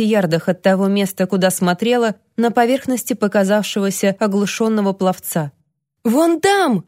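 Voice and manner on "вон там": high, frantic shout to the rescuers; hysterical yell. Acted. Toni screams to the lifeguards, frantic high shout. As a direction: yell and point them to the swimmer. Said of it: "завопила она спасателям".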